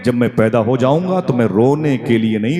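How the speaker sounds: put-on high, pressing child's voice comforting mother; an unborn son soothes his mother, rising and urgent; voice from the womb. The unborn child tells his mother not to cry, high and pleading. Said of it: "मेरे शिकम से आवाज आई".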